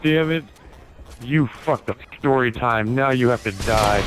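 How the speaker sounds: loud frustrated grumble; annoyed threat at a player; mock angry. Real, not acted. Angry at game kill.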